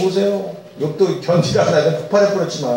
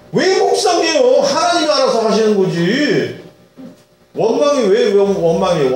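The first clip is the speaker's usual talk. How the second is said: rising rebuke; 5 semitones higher than usual. Acted. Preacher rebuking worry.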